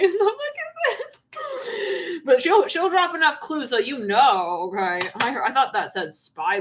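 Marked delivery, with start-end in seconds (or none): 0.0-2.2 much higher, slow, outraged disbelief; stunned mock voice. Enrique reacting to the disguised call, in a high stunned voice. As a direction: drag it out, high and shocked. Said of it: "he's like".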